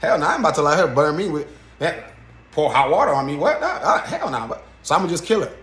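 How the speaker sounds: mock-casual cop, laughing it off; offhand, amused shrug of a voice; casual, nonchalant. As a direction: brush off a killing like nothing, half laughing. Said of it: "he's so nonchalant about it, so casual".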